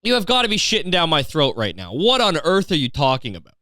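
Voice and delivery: high, rising incredulous cries; can't believe what he's seeing; stunned disbelief. Retold or imitated. Driving past the garbage can, ranting in high disbelief. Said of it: "I was like".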